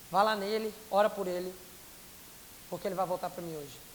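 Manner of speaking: low, measured divine command; Holy Spirit instructing. Retold or imitated. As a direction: give the instruction low, with pauses between phrases. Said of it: "O Espírito Santo me fala". (ordem do Espírito Santo, grave e pausada)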